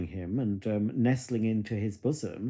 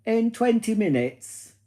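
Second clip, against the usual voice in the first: high, loud, slow reply; voice-assistant command; 10 semitones higher, 5 dB louder, slower than usual. Real, not acted. Speaker answers Alexa about the alarm time, voice-assistant command. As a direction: spell it out slowly for the device.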